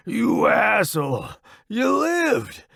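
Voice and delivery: slow, drawn-out joyful jab; high, relieved exclamation; elated relief. A narrator's reading. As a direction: rib a friend who made it. Wounded friend greets a surviving comrade.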